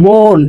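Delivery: মন drawn out as "mooon"; hidden vowel shown. Shown as a demonstration. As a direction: stretch the o inside মন. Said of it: "একটা অর উচ্চারণটা লুকাই আছে".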